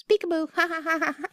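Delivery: high squawky parrot peekaboo. Retold or imitated. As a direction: chirp it like a little bird. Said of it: "looks at her and goes".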